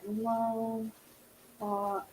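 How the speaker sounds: normal talking voice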